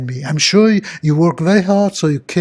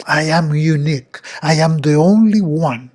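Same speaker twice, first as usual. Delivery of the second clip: heartfelt self-affirmation with a little more lift; smiling, feeling it. Shown as a demonstration. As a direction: affirm it with a smile, meaning every word. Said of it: "you're feeling it while you're saying it".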